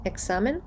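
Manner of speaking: екзамен said eksamen, voiceless; crisp ks in екзамен instead of gz; ks sound. Shown as a demonstration. Teacher returning to the correct form, екзамен with ks. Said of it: "все ж таки це кс".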